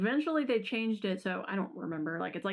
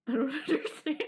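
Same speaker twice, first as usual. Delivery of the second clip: laughing outrage; 7 semitones higher than usual. Retold or imitated. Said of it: "I was like".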